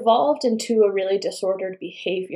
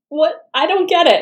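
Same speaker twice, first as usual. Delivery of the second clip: imitating baffled husband; 10 semitones higher, 7 dB louder than usual.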